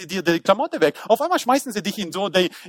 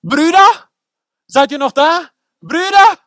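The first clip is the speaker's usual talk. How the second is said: calling out; 6 semitones higher, 6 dB louder, slower than usual. Acted. Joseph calling from the well.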